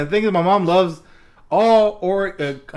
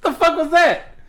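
high incredulous retold question; appalled disbelief; 10 semitones higher than usual. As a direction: ask it high-pitched, as if appalled. Retold shocked reaction to mom.

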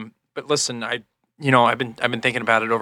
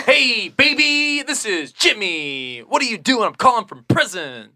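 on a prison phone; 8 semitones higher, 5 dB louder, slower than usual. Pretend. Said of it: "pretending to be my husband".

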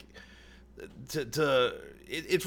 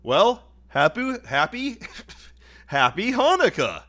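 show host voice; 4 semitones higher, 4 dB louder than usual. Acted. Mock holiday show intro.

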